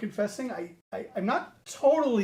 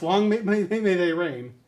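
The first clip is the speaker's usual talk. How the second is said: stumbling toast; 4 dB louder than usual. Acted. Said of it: "A little slow there".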